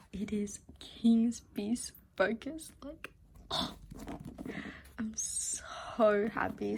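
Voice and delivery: slow whispered happy gush; drawn-out delight. Real, not acted. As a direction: savour each word with joy.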